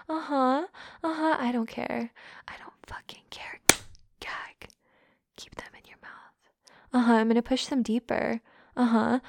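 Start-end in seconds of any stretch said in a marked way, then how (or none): 2.5-6.4 cold dismissive whisper. Acted. Dismissing her partner's pleas in a whisper. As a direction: shrug it off in a hushed whisper.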